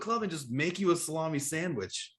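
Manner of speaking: playfully astonished; mock disbelief. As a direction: ask it in comic bafflement. Acting out astonishment at the story.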